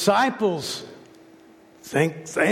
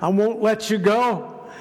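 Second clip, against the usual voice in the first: higher, determined pleading that refuses to let go; passionate plea; 4 semitones higher than usual. Retold or imitated. Jacob wrestling with God all night, passionate plea. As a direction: plead with raised, insistent pitch. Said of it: "What was his passionate plea".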